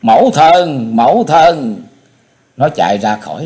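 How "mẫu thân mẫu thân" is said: high, loud desperate call to mother; a child crying out for her mother; cries out loud. A narrator's reading. Child calls her mother, loud high cry. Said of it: "Bảo Âm bỗng kêu lớn lên".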